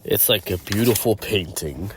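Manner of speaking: understated serious voice, level pitch. Acted. Voice in Deadpool's head admiring the landscape, serious voice. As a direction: say it soberly in your own register. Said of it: "The serious voice says".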